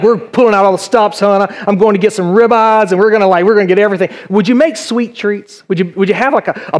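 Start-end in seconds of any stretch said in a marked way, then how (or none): 0.0-4.1 eager host. Acted. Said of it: "You'd be like".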